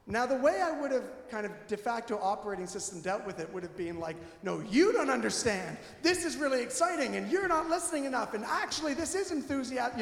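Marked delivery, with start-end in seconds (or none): 4.4-10.0 insistent defensive protest, higher pitched; mock self-justifying argument. Husband arguing back at his wife, mock defensive. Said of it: "to defend myself".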